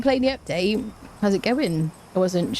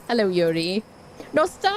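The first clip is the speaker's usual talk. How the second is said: put-on Welsh accent. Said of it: "She'd immediately go into a Welsh accent".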